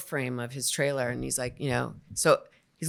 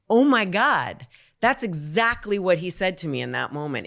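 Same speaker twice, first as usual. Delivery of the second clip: loud, higher burst of realization; shocked recognition; 3 semitones higher, 6 dB louder than usual. Retold or imitated. Actor recognizing his words from the trial, shocked. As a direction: hit "Oh my God" loud, stunned.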